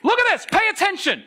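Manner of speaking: high-pitched doggy talk. Retold or imitated. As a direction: hype up a dog to look at something. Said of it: "that's the language here".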